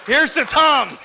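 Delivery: high, loud toast breaking into laughter; laughing toast. Real, not acted. Brother toasting absent Tom, laughing loudly. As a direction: raise a glass while cracking up.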